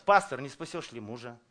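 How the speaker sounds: "Пастор" pushed forward as the swapped word; stress on Пастор. Shown as a demonstration. Preacher swapping the word in the verse, stress on "Пастор". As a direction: lean on "Пастор", then ask it as before. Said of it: "А почему не пастор?".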